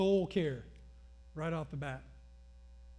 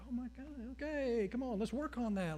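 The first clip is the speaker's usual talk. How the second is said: mock exasperation; 7 semitones higher than usual. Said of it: "It's like".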